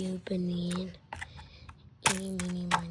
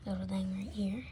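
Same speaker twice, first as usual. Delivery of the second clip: whispering. Acted. Whispered unboxing aside.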